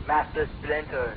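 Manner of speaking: drawn-out try at a villain voice; slow mock villain voice. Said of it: "Do that again?".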